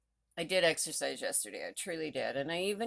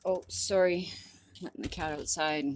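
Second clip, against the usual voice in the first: normal talking voice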